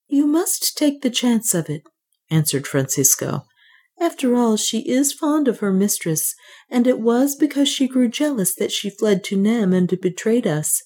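a hint of a serene young priest; clear priest's acceptance. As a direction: accept calmly like a resolved priest.

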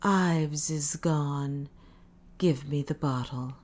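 slow frightened whisper. Acted. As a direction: breathe it out in fear. Frightened Parisi continues whispering.

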